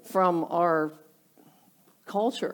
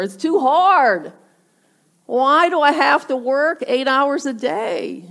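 higher, put-upon complaint; mock complaining; 4 semitones higher, 3 dB louder than usual. Worker about to jump ship, mock complaining. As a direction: imitate someone fed up with work. Mimicking workers who quit when unhappy.

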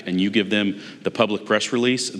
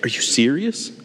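higher, incredulous retort; raised, exasperated what-are-you-talking-about; exasperated disbelief; 4 semitones higher than usual. Retold or imitated. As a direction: say it like you can't believe your ears. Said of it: "I was like".

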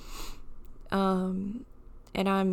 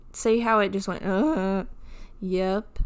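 voice cracking. Real, not acted. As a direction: voice breaking mid-word. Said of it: "sound like I'm a twelve-year-old boy going through puberty".

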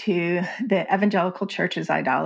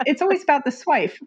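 laughing; 7 semitones higher than usual. Real, not acted. Mocking swife label, laughing.

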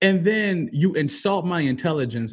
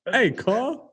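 hood preacher; 6 semitones higher than usual. Acted. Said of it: "you can tell I'm a hood preacher".

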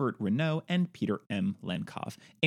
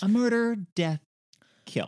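hammed-up action shout; 8 semitones higher than usual. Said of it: "it's a".

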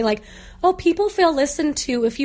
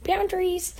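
dog's voice; 6 semitones higher, 5 dB quieter, slower than usual. Pretend.

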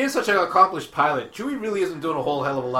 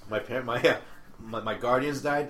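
mock moping; 4 semitones lower, 5 dB quieter than usual. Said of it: "Moping like crazy".

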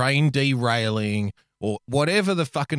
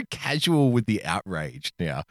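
mock weary drawl. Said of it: "just the way you said that".

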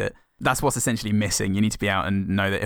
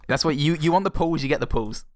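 laughing; 7 semitones higher than usual. Real, not acted. Laughing through a joke.

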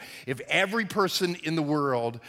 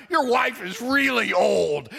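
slow, drawn-out parrot taunt; parrot heckle; 3 semitones higher, slower than usual. Acted. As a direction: stretch the insult like a parrot calling out. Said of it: "the bird yelled".

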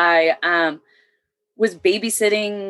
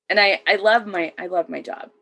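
fighting not to cry over the job she loves; holding back tears. Real, not acted. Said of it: "and I'm trying not to cry".

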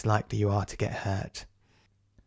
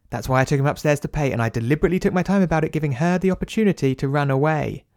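loud, high, fast explaining; brisk manager; 4 semitones higher, 5 dB louder than usual. Acted. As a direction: rattle off the policy like a busy boss.

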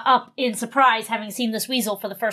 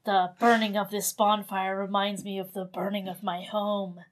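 dark brooding voice; 6 dB quieter than usual. Acted. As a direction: brood over a tragic past. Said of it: "a dark and scary man".

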